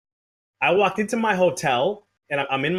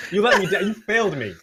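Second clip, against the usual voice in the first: mock wail; 5 semitones higher than usual. Mock betrayal toward friends.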